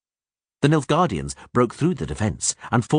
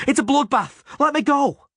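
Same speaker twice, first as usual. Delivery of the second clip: high, louder terrified plea; panicked scream; 3 dB louder than usual. A narrator's reading. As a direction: beg to be let go. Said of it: "the soldier screamed".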